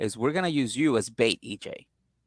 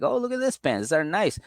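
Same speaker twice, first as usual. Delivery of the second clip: gushing; 3 semitones higher than usual. Retold or imitated. Friend gushing over found pants.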